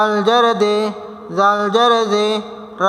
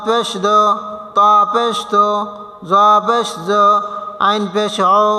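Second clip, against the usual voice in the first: spelling drill. Shown as a demonstration. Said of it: "এতক্ষণ তো বানান করে আসছে".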